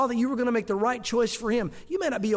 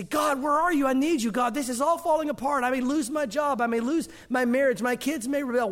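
panicked plea to God; 4 semitones higher than usual. Retold or imitated. Worried believer crying out to God, higher and urgent. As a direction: plead with God like everything is collapsing.

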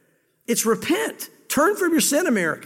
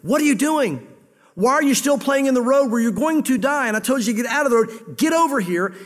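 stern parent; 3 semitones higher than usual. Retold or imitated. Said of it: "God's almost like he's run to the nation".

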